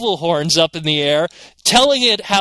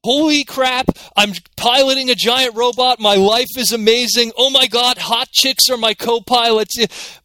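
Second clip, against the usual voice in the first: thrilled fanboy quote; 5 semitones higher than usual. Retold or imitated. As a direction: gush like a kid living the dream, slowing at the end. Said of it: "you'd be like".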